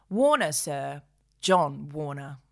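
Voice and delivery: low, deferential shopkeeper; a servile tradesman; humble shopkeeper. Acted. Warner answers the gentleman, low and deferential.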